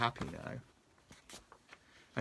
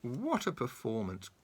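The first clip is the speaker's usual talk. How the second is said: dry comment. Acted. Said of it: "commented the worm".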